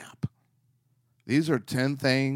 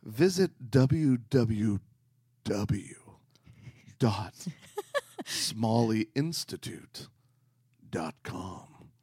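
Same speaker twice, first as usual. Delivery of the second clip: sexy voice; slower than usual. Pretend. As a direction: purr the web address. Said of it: "keep doing this in a sexy voice".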